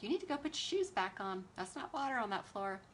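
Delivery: lightly voiced scolding mom; a hint of stern mother. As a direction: tell them off like a mom. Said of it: "you've made me use my mom voice".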